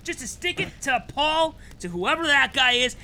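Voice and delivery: high, loud mock-heroic vow; defiant excitement. Defiant vow to keep going.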